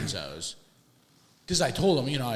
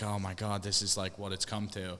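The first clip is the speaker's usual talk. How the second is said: mock depressed; 3 dB quieter than usual. Patient faced with a blast from the past, mildly depressed. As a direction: let it sag, mildly defeated. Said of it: "like, depressed".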